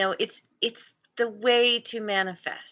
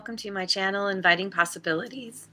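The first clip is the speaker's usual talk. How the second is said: morning voice; faster than usual. Real, not acted. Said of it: "Morning voice".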